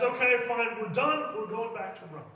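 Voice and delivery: loud, fed-up "fine, we're done"; exasperated giving in. Retold or imitated. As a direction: throw up your hands and cave. Pope gives in, exasperated.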